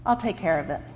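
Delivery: God answering quietly; understated divine calm. Acted. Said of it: "God replied".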